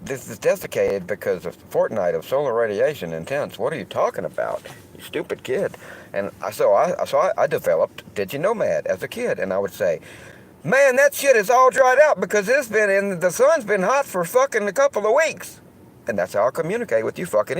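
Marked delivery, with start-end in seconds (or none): 0.0-5.8 a hint of a sneering kid; mocking dumb listener. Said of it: "they wouldn't understand". 10.6-15.6 much higher, louder Southern twang; loud Southern good ol' boy voice, dumbing it down; southern accent Diginomad. Acted. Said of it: "do I talk with this southern, southern accent".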